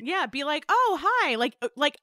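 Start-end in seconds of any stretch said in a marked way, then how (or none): 0.7-1.4 higher-pitched mock friendly greeting; hiding a yawn. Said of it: "like, hide your yawn".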